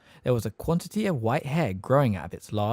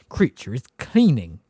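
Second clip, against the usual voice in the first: slow, lightly evasive reply; evasively; 2 semitones higher, 7 dB louder than usual. A narrator's reading. Elf avoiding the twin's question, mild evasive answer. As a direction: dodge the question. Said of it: "he said evasively".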